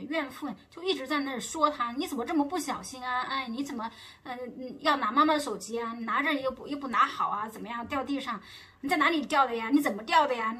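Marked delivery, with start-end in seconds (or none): 2.0-10.6 nagging shrew. Retold or imitated. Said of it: "像一种泼妇一样的那种感觉".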